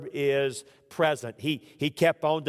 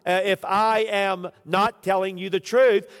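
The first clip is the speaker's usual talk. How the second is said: desperate sworn oath; 5 semitones higher, 6 dB louder than usual. Acted. Peter loudly swearing to the crowd he is not lying. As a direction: swear it loudly as if your life depends on it.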